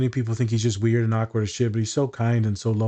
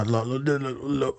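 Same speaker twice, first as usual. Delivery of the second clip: low somber; 3 dB quieter than usual. Shown as a demonstration. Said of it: "I get real low".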